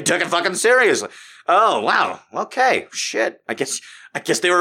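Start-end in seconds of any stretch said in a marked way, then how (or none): none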